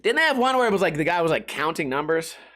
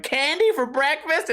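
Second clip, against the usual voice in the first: put-on higher, slow, delighted kid voice; happy kid; 8 semitones higher than usual. Happy kid in the skit asking for candy, high delighted. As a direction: ask it like an overjoyed child. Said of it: "some happy-ass kid going".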